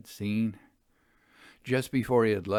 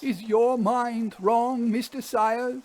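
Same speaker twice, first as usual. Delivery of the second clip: higher voice of an uneasy railwayman; haunted engine driver; 14 semitones higher, 6 dB louder, slower than usual. Acted. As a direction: play the driver, set apart from the narrator, pitched up. Fern questions Sayers.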